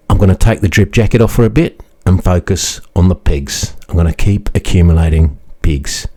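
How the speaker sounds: ordinary delivery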